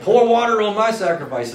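high, loud dare; bold challenge. Retold or imitated. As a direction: throw down the gauntlet. Prophet challenges Baal's prophets.

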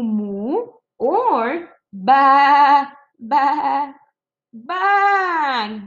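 a slow moo, then bleats of baa; teacher acting out animal sounds; playful farm noises for kids; mock bleat. Shown as a demonstration. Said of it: "Does the sheep say moo".

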